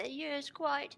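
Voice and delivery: mock posh British. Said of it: "we do this in our British accents".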